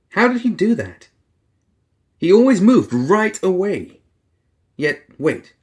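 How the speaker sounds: jolted by his sudden move; startled thoughts. A narrator's reading. Alice shocked at Leviticus's quick move, high alarmed voice.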